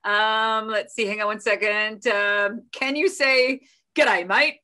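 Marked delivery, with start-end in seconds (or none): 3.9-4.6 lightly put-on Aussie greeting, louder; Australian accent. Shown as a demonstration. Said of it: "in an Australian accent".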